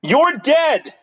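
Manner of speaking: high, squeaky mock threat; mock killer shout. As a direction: shriek it like a cartoon killer.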